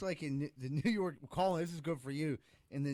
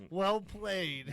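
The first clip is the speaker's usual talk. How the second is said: laughing; 4 semitones higher than usual. Real, not acted. Laughing praise after joke.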